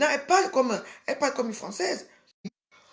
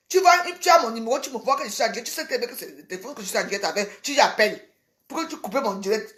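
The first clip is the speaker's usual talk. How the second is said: angry rant; 3 dB louder than usual. Real, not acted. Angry rant at caller on live.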